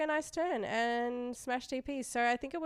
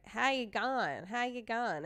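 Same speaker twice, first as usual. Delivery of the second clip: imitating a broad Aussie accent; thick Australian accent; slower than usual. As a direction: put on a thick Aussie twang, lightly mocked. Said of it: "there's a very thick Australian accent that's like".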